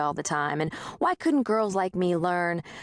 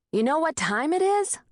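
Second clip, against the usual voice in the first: gruff landlord; 10 semitones higher than usual. A narrator's reading. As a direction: wake her up with it. Landlord demanding at door.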